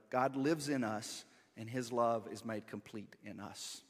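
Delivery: measured, solemn reading of the passage; scripture reading. Acted. Pastor reading scripture to the church, measured and solemn. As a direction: read it aloud to the congregation.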